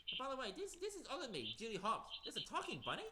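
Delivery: excited. Acted. Toy character meets Judy Hopps.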